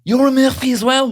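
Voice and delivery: high mock surprise; high squeaky voice. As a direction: pipe it up like a kid.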